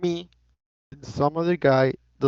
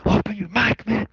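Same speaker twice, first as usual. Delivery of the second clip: retold yell; 5 semitones higher than usual. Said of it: "and I started screaming".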